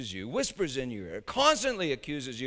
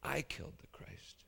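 quiet confession; 10 dB quieter than usual. Shown as a demonstration. Preacher voicing the confession quietly after railing. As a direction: let it fall softly. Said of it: "never confess".

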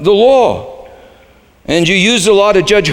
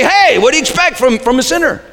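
shrugging; 6 semitones higher, faster than usual. Retold or imitated. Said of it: "you just say".

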